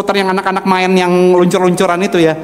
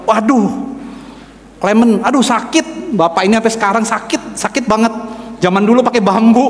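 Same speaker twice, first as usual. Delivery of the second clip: higher, mock-dramatic warning of pain; imitated alarmed warning; 5 semitones higher than usual. Driver tells boy how much circumcision hurts, mock alarm. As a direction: play up the horror story, pitched up.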